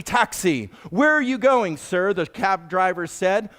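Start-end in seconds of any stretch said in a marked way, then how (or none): 0.0-0.7 cab driver calling, settled. Retold or imitated. 0.9-2.1 high, loud, brisk driver's question; cab driver's question. Retold or imitated.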